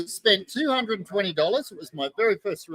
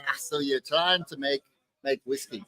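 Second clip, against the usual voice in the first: put-on half-hearted, lower Scottish accent; 3 semitones lower, 4 dB quieter than usual. Retelling the Scotsman's question to the distiller, in a rough Scottish accent. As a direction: try a Scotsman's accent, not very convincingly. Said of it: "Is that your Scottish accent?".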